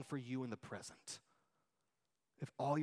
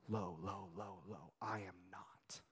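low, soft, sinking almost to a whisper; hushed humility; 6 semitones lower, 10 dB quieter, slower than usual. Acted. Preacher echoing John's lowliness, hushed and humble. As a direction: let each phrase drop quieter and lower.

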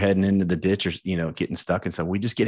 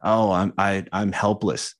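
mock self-pity; slower than usual. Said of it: "It's the poor me".

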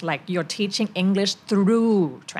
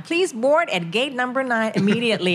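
lightly imitated boarding announcement, raised pitch; a hint of a gate announcer; airline announcer; 4 semitones higher, much slower than usual. Former student announcing to passengers at the gate, imitated airline announcer. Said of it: "เป็นประกาศ".

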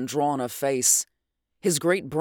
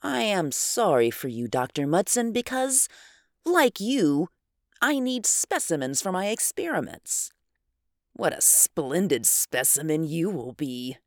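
vibrant menacing voice; 3 semitones higher than usual. Acted. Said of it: "the vibrant, too new voice went on".

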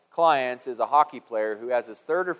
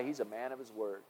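quoted compliment; 3 semitones lower, 14 dB quieter than usual. Retold or imitated. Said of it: "a compliment that we hear about people".

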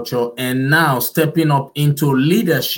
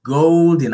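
GOLDEN repeated louder on its own; emphatic repetition; 3 semitones higher, 5 dB louder than usual. Real, not acted. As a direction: hit "Golden" firmly, set apart for emphasis. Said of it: "I repeat".

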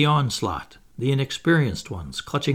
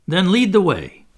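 louder, higher order; eager command; 6 semitones higher, 7 dB louder than usual. Acted. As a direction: send her off with gusto. Peter orders Tink.

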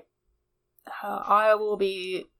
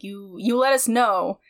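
firm, not quite threatening; 4 dB louder than usual. Acted. Botches to the tech up close, very firm. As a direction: lay down a firm instruction. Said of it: "Not quite threatening, but very firm".

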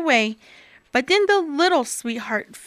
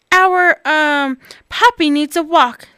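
little pig voice; 4 semitones higher, 7 dB louder than usual. Acted. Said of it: "the leader cried".

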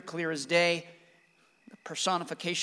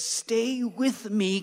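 slow, louder retold doctor's command; urgent doctor; 5 semitones higher, 5 dB louder, much slower than usual. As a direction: play the doctor pulling her back, drawn out. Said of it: "smacks her on the leg and says".

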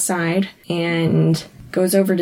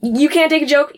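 high mock innocence; 8 semitones higher, 3 dB louder than usual. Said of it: "he's like".

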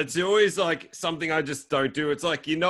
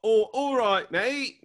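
high, hammed-up Australian greeting; mock someone's bad Australian; exaggerated Australian "mate", pitched up; mock Australian accent; 8 semitones higher, slower than usual. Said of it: "I can't do Australian to save my life".

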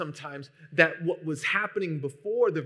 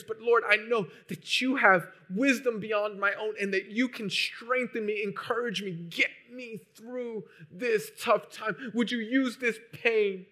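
raised, higher pleading prayer voice; a believer crying out to God in a raised, higher voice; praying aloud; 5 semitones higher, 5 dB louder than usual. Retold or imitated.

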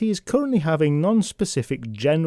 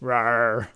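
mock bear roar; 3 semitones lower than usual. Imitates the bear on the shield.

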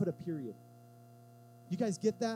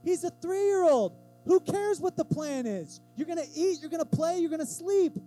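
exasperated; 7 semitones higher, 7 dB louder than usual. Real, not acted. Preacher exasperated at toddler's question.

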